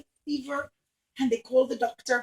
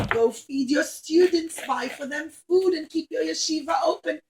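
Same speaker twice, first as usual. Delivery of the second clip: grand rich lady; 4 dB louder than usual. Acted. Rich Roman lady welcoming Rabbi Akiva, loud and gracious. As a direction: greet him like a generous grand lady.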